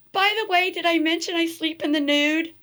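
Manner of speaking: high, loud, mock-casual announcement; cheeky parting joke. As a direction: toss it off with comic nerve. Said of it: "I go".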